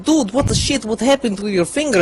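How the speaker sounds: high shocked outburst. Retold or imitated. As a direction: react in disgust and shock. Friends shocked at finger.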